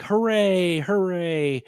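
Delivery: high, mock-triumphant hooray; mock cheering. Film crowd cheering the blown-up meteor, mock high hooray. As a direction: cheer like the crowd just won.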